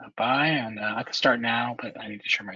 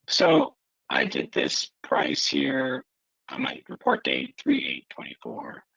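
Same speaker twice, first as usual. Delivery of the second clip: garbled, choppy transmission; breaking up over a bad line; glitching audio; 4 semitones higher, 3 dB louder than usual. Real, not acted. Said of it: "it's garbled".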